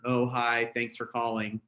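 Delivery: bored, listless hello; droopy phone greeting; flat, low-energy greeting. Shown as a demonstration. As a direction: mumble it like you don't care. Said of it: "it's not gonna work".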